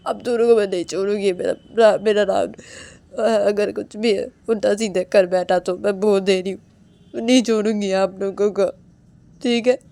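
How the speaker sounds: loud, fierce warning to the family; an enraged wife warning everyone; furious threat. Acted. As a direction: threaten them, nearly shouting. Woman threatens family over Rahul.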